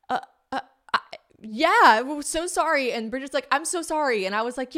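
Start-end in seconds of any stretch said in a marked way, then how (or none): 0.1-2.9 gushing, high-pitched mock apology; flustered apology. Retold flustered apology to the stranger. 3.5-4.3 high-pitched imitation of an apologetic friend; mock-flustered, eager sorry; gushing apology.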